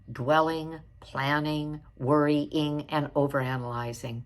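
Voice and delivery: measured read-aloud from prepared notes. Real, not acted. Coach reading therapist's walking meditation notes to viewers, read-aloud delivery. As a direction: read it out phrase by phrase, without improvising. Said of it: "I'm gonna read her notes".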